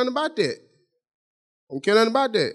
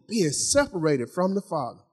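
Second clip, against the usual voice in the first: weighty repetition; 2 semitones lower, 6 dB quieter than usual. Real, not acted. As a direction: linger over the phrase. Dwells on the repeated key point.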